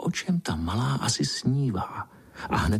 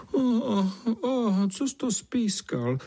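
much higher, slow singsong "o, o, o"; teasing ladybird chorus; 13 semitones higher, slower than usual. Acted. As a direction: tease him in a high drawn-out chant. Ladybirds tease the narrator.

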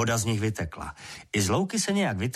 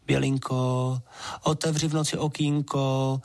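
higher, coaxing plea to his sweetheart; pleading water sprite; 4 semitones higher than usual. A narrator's reading. Water sprite begging Bělinka to open the window, pleading. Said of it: "škemral dál Hastrman".

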